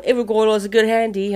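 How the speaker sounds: put-on English accent, quick. Co-host quoting English contestants, English accent. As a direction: quote it like an English holidaymaker. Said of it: "they're English, a lot of them".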